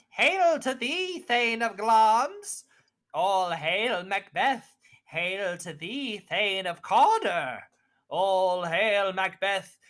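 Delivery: chanted witch greeting, rising high on hails; a witch's ritual chant; witch's prophecy. Acted. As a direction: hail him like an eerie witch.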